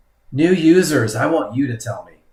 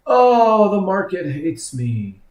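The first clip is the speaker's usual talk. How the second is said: mock whine, high wailed "oh" sliding down; whiny trader; 3 semitones higher, slower than usual. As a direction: play the self-pitying trader, hammed-up. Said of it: "my whiny trader voice".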